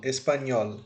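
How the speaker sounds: "espanhol" stressed on the final "nhol"; stress on last syllable. Shown as a demonstration. Teacher confirming the tonic syllable, "espanhol" with stress on "nhol". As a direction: put the force on "nhol" in "espanhol". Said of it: "eu coloco mais força ao falar".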